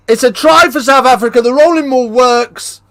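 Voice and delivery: high, loud play-by-play call; rugby commentator roaring a try; excited commentary. Acted.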